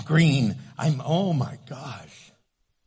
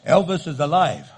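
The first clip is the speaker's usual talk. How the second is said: louder, laughing repeat of "Elvis is alive"; mock tabloid repeat; 2 semitones lower, 6 dB louder than usual. Mocking repeat of tabloid claim.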